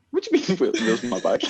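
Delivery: high incredulous echo of a friend; imitated disbelief. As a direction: mimic a baffled friend, close to laughing.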